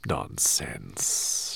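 low breathy hiss; hissed dismissal. A narrator's reading. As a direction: hiss it off lightly. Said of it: "she hissed".

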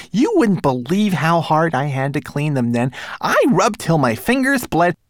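high little manservant voice; fussy tiny homunculus. Acted. Twigleg complains, rising.

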